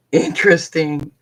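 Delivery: amused, chuckling over the word interesting; laughing. Real, not acted. Laughing at her own word interesting while telling viewers about therapy.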